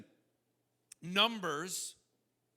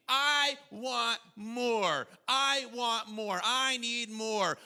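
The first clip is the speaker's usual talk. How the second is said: very slow, drawn-out want; preacher voices our inner complaint to God, slow and insistent; greedy demand; much slower than usual. Acted. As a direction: stretch it like a child demanding more.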